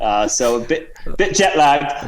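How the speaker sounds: put-on Cockney-Australian accent; Sir Reginald. Guest pleads jet lag in fake Cockney-Australian accent. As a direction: make a mock Cockney-Aussie excuse. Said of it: "bit of a Cockney accent and Australian".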